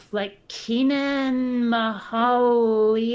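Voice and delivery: "Kenan, Mahalalel" sounded out slowly, syllable by syllable; "Mahalalel" drawn out as an unfamiliar name; struggling pronunciation. Real, not acted. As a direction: stretch "Kenan" and "Mahalalel" out, feeling the way. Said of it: "I can't pronounce any of these".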